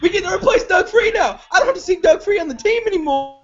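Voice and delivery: high, laughing, overjoyed cry; elated laughing shout. Real, not acted. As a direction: shout it through relieved laughter. Elated about the pick.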